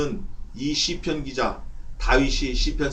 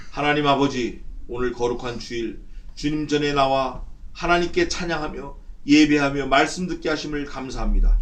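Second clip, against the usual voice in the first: measured, swelling congregational prayer; solemn but emphatic address to God; public prayer. Real, not acted. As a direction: lead the congregation in prayer, building in force. Leads the closing prayer.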